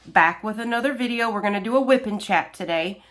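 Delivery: stuffy, nasal cold voice; talking through a blocked nose. Real, not acted. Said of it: "my nasally voice".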